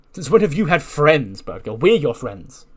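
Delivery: retold indignation, pitch and volume jumping on key words; mock indignant challenge. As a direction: play at being affronted by a friend. Acted quarrel over having friends.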